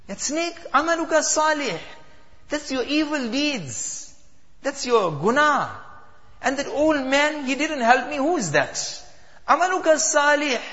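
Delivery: daughter explaining. Acted. Daughter explains snake and old man.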